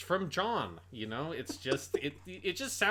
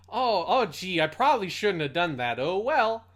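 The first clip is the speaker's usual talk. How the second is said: mock casual regret; 3 semitones higher, 6 dB louder than usual.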